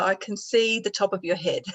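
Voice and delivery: laughing through the words; chuckling while talking. Real, not acted. Amused at her camera view.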